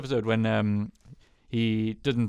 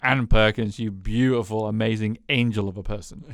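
gushing Leslie; 4 dB louder than usual. Retold or imitated. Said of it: "just saying that constantly".

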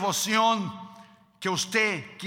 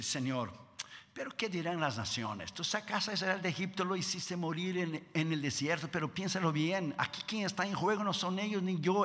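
soft pleading prayer; 2 semitones lower, 6 dB quieter than usual. Retold or imitated. Moses pleading softly with God.

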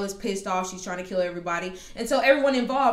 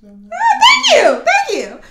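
laughing thanks; 13 dB louder than usual. Real, not acted. Answering the listener's approval.

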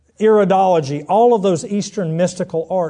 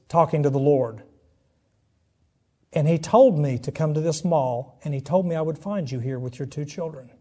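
gentle messenger; 4 dB quieter than usual. Retold or imitated. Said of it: "he said".

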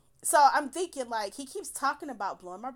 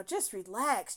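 retold soothing; slower than usual. Woman quoting the man being nice, mildly soothing. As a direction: say it evenly, mildly placating. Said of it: "would start being nice".

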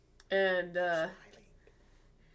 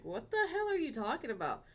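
higher-pitched indignant disbelief; baffled retort; 5 semitones higher than usual. Retold or imitated. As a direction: retell it as a startled comeback. Baffled reply to being chewed out.

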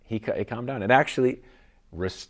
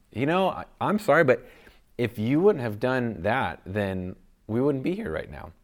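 blaming apology; 4 semitones higher, 4 dB louder than usual. Retold or imitated. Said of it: "pin some of the blame on them".

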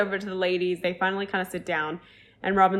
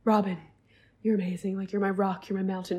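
understated, softening imitation of an earnest toast; a bit more serious. Partner toasting Robin on the microphone, a bit more serious. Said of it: "a bit more seriously".

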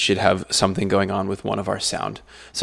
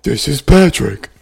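slow, louder cartoon line; lightly voiced cartoon line; 4 semitones higher, 7 dB louder, much slower than usual. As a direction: announce it like a cartoon host. Pretending to be SpongeBob.

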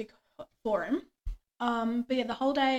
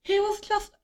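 laughing; 4 dB louder than usual. Real, not acted. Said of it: "laughs while quoting herself".

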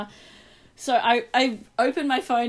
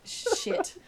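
breathy whispered "Shit" pitched up high; whispered curse; 10 semitones higher, 3 dB quieter than usual. Retold or imitated. No reply from the drunk friend, whispered panic. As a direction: gasp it out under your breath in alarm. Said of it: "And I was like".

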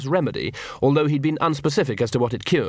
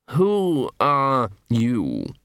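very slow, woozy aristocrat; drawn out as if light-headed; dazed patrician; much slower than usual. Acted. Wounded patrician questioning Nobby, very slow and woozy.

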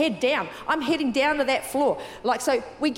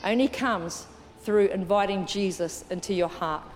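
gently lowered, reverent invitation; altar call; 4 semitones lower than usual. Real, not acted. Leads an altar call, eyes closed.

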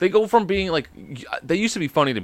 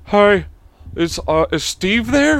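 telemarketer voice; 7 semitones higher, 4 dB louder, slower than usual. Retold or imitated. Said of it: "I'm like".

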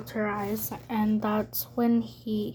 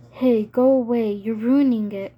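raised voice, shooing it off; yelling; 6 dB louder than usual. A narrator's reading. Pip banging on the window at a crow, yelling. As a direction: yell at it to clear off.

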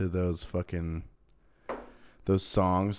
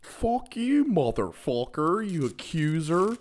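high, shrill-pitched mock yell; imitating screaming woman; 9 semitones higher than usual. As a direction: mimic a woman screaming at a man in a store. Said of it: "she is just like".

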